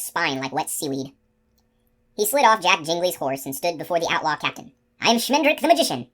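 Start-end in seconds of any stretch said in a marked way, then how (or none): 5.0-6.1 much higher, grand proclamation; grand announcement. A narrator's reading. Magician declaring himself to the captain, grand and higher. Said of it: "he announced".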